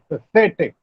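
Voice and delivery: "pathetic" as one word, weight on "the"; stress on THE. Shown as a demonstration. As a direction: stress the middle syllable of "pathetic", pa-THE-tic. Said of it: "The stress is on say".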